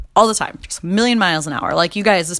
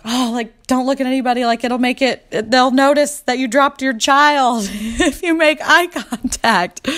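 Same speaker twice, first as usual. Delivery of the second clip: high, slow, giggling through the words; mock panic, laughing it off; whispered self-advice breaking into laughter; laughing self-talk; 5 semitones higher than usual. Self-talk quote while embarrassed.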